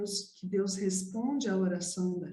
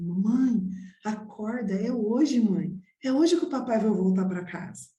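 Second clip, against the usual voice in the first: retold eager child, a bit louder; eager wake-up call; 4 dB louder than usual. Child waking mother on the ninth day, eager and insistent. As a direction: wake mother with mild urgency.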